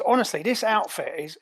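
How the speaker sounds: indignant Cockney henchman; Cockney, incredulous and accusing; Cockney ape. Acted. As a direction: argue back in a broad Cockney accent. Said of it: "I love that he's a Cockney ape".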